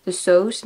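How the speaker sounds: "sauce" with a long O; French-like vowel. Shown as a demonstration. Learner guessing her own habit, long-O vowel. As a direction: say "sauce" as "sohs". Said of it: "Maybe I say the sauce".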